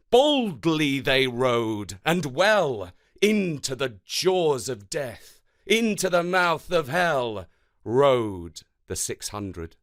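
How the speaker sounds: rhythmic, dramatic poem reading; galloping poem recital. Acted. Teacher reading a war poem to the class, rhythmic recital. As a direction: ride the galloping beat of the verse. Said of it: "Listen out for the galloping rhythm".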